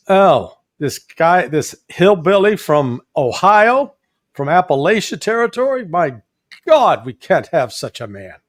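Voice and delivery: mock elite snobbery. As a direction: play the appalled snob looking down his nose. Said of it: "that East Coast elite snobbery".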